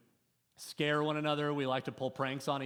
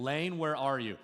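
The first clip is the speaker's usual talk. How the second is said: mild retold yell. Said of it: "I'm yelling as loud as I can".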